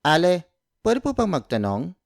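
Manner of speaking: clear, careful Tagalog model phrase. Shown as a demonstration. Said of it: "in Filipino or in Tagalog".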